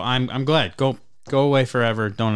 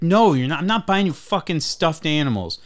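higher, firm scolding refusal; mock angry dad; 4 semitones higher than usual. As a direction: imitate a dad swearing at his kid. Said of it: "swearing at his kid".

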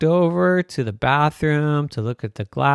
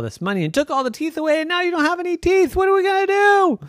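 put-on child voice; much faster than usual. Children scold daddy.

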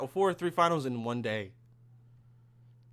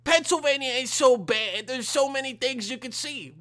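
high, loud, exaggerated mock Jewish accent; Jewish accent impersonation; 9 semitones higher, 6 dB louder than usual. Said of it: "I did my Jewish fucking impersonation".

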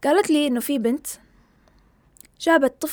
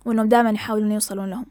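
quoting student; 2 semitones lower, faster than usual. Retold or imitated. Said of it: "قالت له".

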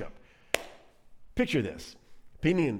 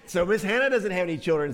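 put-on raised, loud child voice; little child; 5 semitones higher, 6 dB louder than usual. Little one telling mommy again, child voice. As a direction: pipe up like a little kid. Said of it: "says the little one again".

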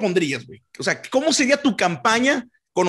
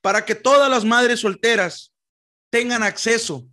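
campaign speech voice; 2 semitones higher than usual. Pretend. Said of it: "le dan ese tonito acá".

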